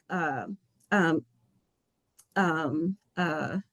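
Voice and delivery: real emotion catching in the throat, long pauses; choked up. Real, not acted. Official overcome mid-speech thanking student advocates, choked up. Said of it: "I'm getting a little emotional here".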